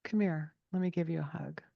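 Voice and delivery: soft, tender comfort to a crying son; a kind father calming his crying son; gentle dad. Retold or imitated. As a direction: hush and soothe the boy. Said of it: "he said".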